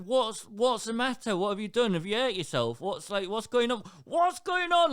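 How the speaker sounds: high, loud frantic questions; checking a screaming child; retold alarm; worried parent. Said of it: "And I'm like".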